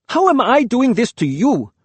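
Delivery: loud, high protest; crying out. A narrator's reading. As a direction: cry it out in anguish. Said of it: "I cried".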